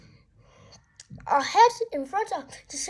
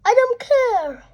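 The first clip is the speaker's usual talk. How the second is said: hissed scolding; 3 semitones higher, 5 dB louder than usual. Acted. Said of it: "hissed Mom".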